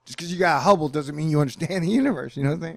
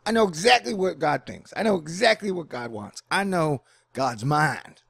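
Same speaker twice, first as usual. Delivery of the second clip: smug know-it-all; 4 semitones higher than usual. Retold or imitated. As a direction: brag like you know God's mind. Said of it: "my fellow Christians are like".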